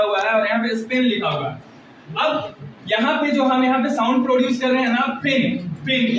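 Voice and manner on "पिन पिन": पिन with a puff of h after the प; aspirated P. Shown as a demonstration. Teacher showing students the sound in पिन, aspirated P. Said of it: "प के बाद ह का pronunciation हो रहा है".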